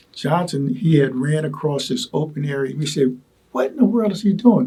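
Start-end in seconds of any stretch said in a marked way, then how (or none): 3.5-4.7 higher, incredulous retold question; retold disbelief. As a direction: recall the shock of seeing it. Retelling shock at Johnson running.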